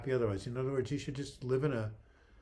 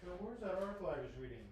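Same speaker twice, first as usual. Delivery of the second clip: quick, quiet muttering aside; muttering to himself; 6 semitones higher, 10 dB quieter, faster than usual. Real, not acted. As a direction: mutter it under your breath.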